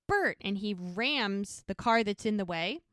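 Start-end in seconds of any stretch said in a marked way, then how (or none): 0.1-0.4 high, falling shout of a name; retold yell. She yells to Bert as he barrels by, retold yell. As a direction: cry out the name, pitched well up. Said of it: "she yells".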